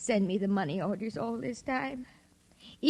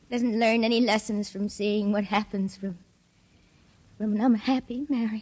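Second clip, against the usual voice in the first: laughing. Acted. Sophie unhinged, laughing at George.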